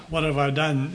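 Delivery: "What" leaned on at the start; stress on what. Shown as a demonstration. Teaching listeners where emphasis goes, "What" stressed. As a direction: lift the word "What", the rest of "What have I done?" lighter. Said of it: "it makes a difference where we put the emphasis".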